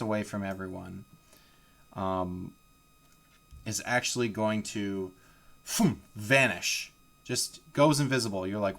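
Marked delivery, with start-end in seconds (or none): 5.6-6.0 drawn-out "phoom" sound effect; vanishing whoosh. Acted. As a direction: voice a puff of magic. Imitated noise of hag vanishing.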